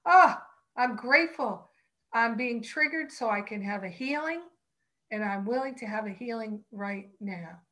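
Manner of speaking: a sudden loud burst of "oh, I'm grateful", then settling; demonstrating a joyful switch to gratitude; showing students how gratitude sounds when triggered; grateful exclamation. Shown as a demonstration. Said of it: "going to gratitude".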